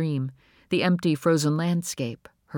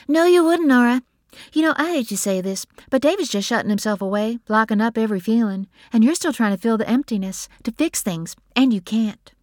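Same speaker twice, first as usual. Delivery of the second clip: louder, higher sister voice, pressing her point; blunt, insistent sister; 8 semitones higher, 6 dB louder than usual. A narrator's reading. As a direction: push back hard, pitched up.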